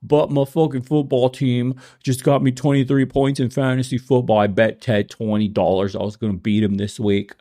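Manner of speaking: lightly voiced bragging fan; mock football fan. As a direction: brag like a fantasy football bro.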